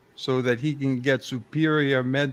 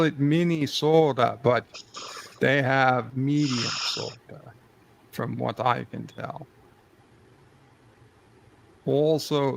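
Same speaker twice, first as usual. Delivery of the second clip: mild mock Russian-Minnesotan accent; a lightly put-on Russian accent, musing on Minnesota; Minnesotan Swede Russian accent. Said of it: "a Minnesotan Swede and crossed it with a Rusky".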